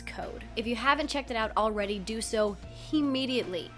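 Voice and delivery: hoarse laryngitis voice; croaky voice. Real, not acted. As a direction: read the news through a sore throat. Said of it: "so I have kind of a croaky voice".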